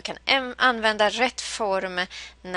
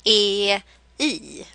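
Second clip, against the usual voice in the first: vowel melody I E I; much slower than usual. Shown as a demonstration. Teacher showing the vowel tune of the verb group. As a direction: chant "I, E, I" stepping down in pitch. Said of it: "den här gruppen som låter så här".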